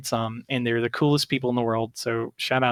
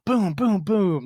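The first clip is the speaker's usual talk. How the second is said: punchy, higher-pitched booms; explosion noises; 7 semitones higher, slower than usual. Acted. Gamer retelling a priest's rescue, imitated explosions. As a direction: fire off the booms like spells landing.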